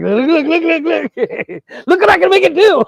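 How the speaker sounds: high, loud eager look look; excited kid. Retold or imitated. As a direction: beg them to watch like a kid. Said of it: "You're like".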